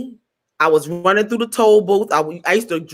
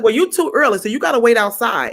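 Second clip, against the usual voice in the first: nasty dismissal; 3 semitones higher than usual. Retold or imitated. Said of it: "he was so nasty to me".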